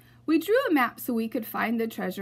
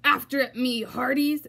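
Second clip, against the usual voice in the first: louder pirate captain order; commanding; 3 semitones higher, 4 dB louder than usual. Acted. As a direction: command the crew. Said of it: "Braidbeard commanded".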